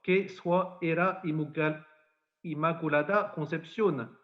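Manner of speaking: Lourdes patois, measured and solemn. Acted. Priest quoting the Lady's words to Bernadette, in Lourdes patois. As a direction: quote it in the old Lourdes patois. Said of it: "alors dans le patois".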